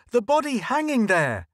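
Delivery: high, loud shout. A narrator's reading. Ed yelling at the gathering crowd, high and loud. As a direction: yell it out in horror. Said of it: "Ed shouted".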